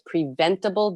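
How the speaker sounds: preventable given extra weight; stress on preventable. Shown as a demonstration. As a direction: lean on preventable to make the point. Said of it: "I emphasize the word preventable".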